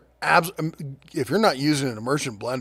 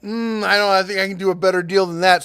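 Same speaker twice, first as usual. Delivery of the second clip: skeptical; 3 semitones higher, 5 dB louder than usual. Retold or imitated. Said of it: "and I'm like".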